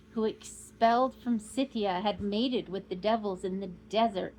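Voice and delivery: a hint of a proud old nobleman; proud old Count. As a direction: boast of the bloodline with pride. Count's proud speech voiced.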